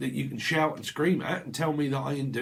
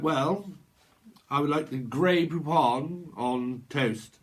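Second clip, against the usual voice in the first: lightly voiced posh hotel guest, slow; a hint of upper-class airs, unhurried; slower than usual. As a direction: order slowly like a mock-grand guest. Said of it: "high upper class hotel home".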